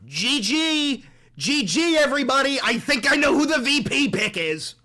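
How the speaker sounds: high, loud excited yell; excited shout. Real, not acted. Streamer shouting his guess to chat. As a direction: burst out with the news.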